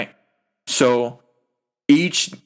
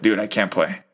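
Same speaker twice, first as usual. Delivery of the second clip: imitating injured player; 6 semitones lower, faster than usual. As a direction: voice him defeated and hurt. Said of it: "He's like".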